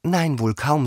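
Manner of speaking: high-voiced, placating Alice; high, conciliatory reply; soothing. A narrator's reading. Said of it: "sagte Alice mit beruhigender Stimme".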